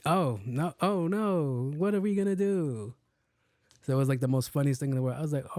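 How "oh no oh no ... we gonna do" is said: high, sarcastic fake panic; mock fear. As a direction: pretend to be terrified, pitched up. Mock fear at drunk's threat.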